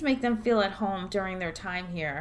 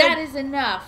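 firm loud rebuke; 5 semitones higher, 6 dB louder than usual. Acted. Mayor cuts off heckler.

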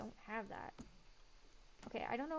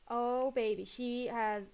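delighted; 9 dB louder, slower than usual. Real, not acted. Delighted at the character's idea.

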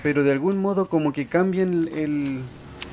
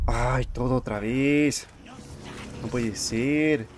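dejected whine; much slower than usual. Real, not acted. Must replay after dying.

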